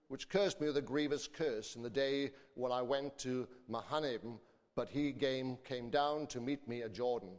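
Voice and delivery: measured, solemn Bible reading; scripture reading. Acted. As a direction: read the King James text aloud to the congregation. Reads scripture aloud.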